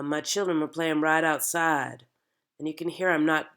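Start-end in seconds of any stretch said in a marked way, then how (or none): 0.0-2.0 my children were playing right outside, kept on close notes; narrow note range. Shown as a demonstration. Coach modelling the accent's melody, narrow three-note range. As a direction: keep right outside level, slowing into it without jumping in pitch. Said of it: "jumping or dropping down in notes".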